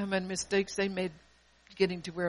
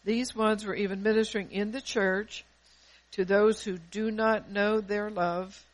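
reading it again louder, with more weight on "ministering" and "caught"; louder, fuller reread; 4 dB louder than usual. Shown as a demonstration. Pastor rereads the vision to the church, louder and firmer. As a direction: press "caught in division" harder the second time. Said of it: "Let's go start this over again".

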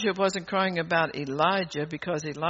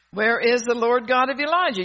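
a raised, insistent preaching question; preached cry; 4 semitones higher, 7 dB louder than usual. Shown as a demonstration. Preacher first calling out the question to the congregation, raised. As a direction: call it out to the congregation. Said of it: "You ought to be shouting that".

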